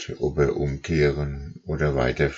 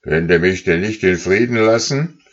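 impatient; 3 semitones higher, 4 dB louder than usual. Acted. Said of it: "tat noch ungeduldiger".

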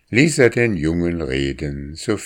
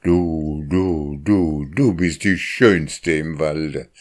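cooing pigeon voice; slower than usual. A narrator's reading. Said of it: "Und fortwährend gurrte er".

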